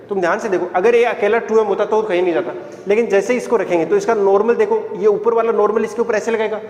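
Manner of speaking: brisk, insistent explaining; तेज तेज. Real, not acted. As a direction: drive the explanation on without letting up. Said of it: "मैं जरा तेज तेज बोलता हूँ". (तेज़-तेज़, ज़ोर देकर समझाते हुए)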